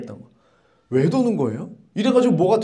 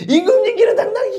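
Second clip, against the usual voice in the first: mock shout; 14 semitones higher than usual. Students shout mockingly.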